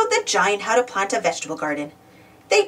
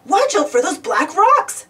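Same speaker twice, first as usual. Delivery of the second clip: slow, higher-pitched urgent warning; hissed warning; 8 semitones higher, slower than usual. A narrator's reading. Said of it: "Gardener Tyrone hissed".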